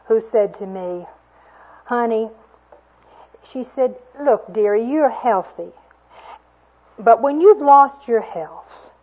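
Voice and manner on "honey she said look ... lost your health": put-on louder, shaking old woman's plea; a sick old woman, voice trembling; shaken voice. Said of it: "her voice was shaken".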